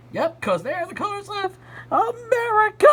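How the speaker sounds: high excited line, America punched hard at the end; stress on America. A narrator's reading. July to the group, hitting America proudly. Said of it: "July really put emphasis on that last word".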